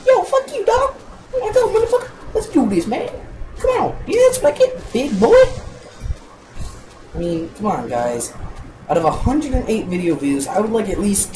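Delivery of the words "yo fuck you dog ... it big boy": loud, strained, high-pitched mock taunt; put-on tough-guy street voice. Gamer threatening a creeper in a loud put-on tough voice. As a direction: shout it as an exaggerated street tough. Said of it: "My deep voice black guy".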